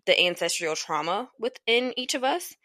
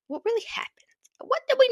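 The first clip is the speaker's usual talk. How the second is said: high, hushed conspiratorial whisper; faster than usual. Acted. Asking the audience about hidden history, hushed whisper. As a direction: whisper it like a secret.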